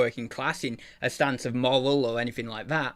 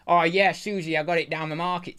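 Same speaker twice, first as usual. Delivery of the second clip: working class market voice. Retold or imitated. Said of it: "type vibe".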